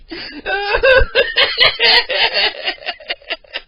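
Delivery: loud high wheezing laugh; breathless shrieking laughter. Real, not acted. Caller shrieks, breathless with laughter after the prank. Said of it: "I can't even breathe".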